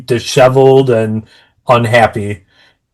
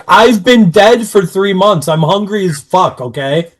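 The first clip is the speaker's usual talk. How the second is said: whiny Buffy; 6 semitones higher than usual. Retold or imitated. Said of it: "And Buffy's like".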